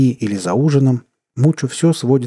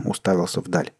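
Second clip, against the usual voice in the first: ordinary delivery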